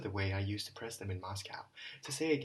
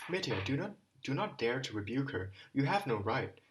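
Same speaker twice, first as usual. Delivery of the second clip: warm shout; 3 semitones higher than usual. Acted. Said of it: "Alyosha shouted warmingly".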